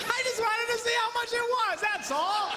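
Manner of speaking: squeaky high defensive whine; high mock innocence. Real, not acted. Preacher defending himself to the women, high and whiny.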